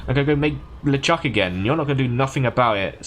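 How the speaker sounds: lightly voiced gloating villain; a hint of a smug villain; finally getting the villain's threat out. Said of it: "And he goes".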